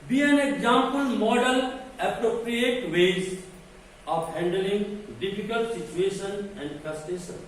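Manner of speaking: deliberate lecture-point dictation; slow dictation reading. Acted. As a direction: read each English word out very slowly.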